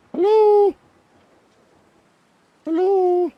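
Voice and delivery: very high, thin call of hello; a high mock call into the empty shelter; falsetto hello. Calling into the ruined shelter.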